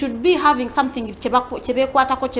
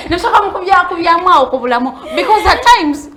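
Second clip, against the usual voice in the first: words spilling out through laughter, higher and louder; laughing while talking; 7 semitones higher, 10 dB louder than usual. Real, not acted. Laughing through words about life's hard moments. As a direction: keep laughing as you talk.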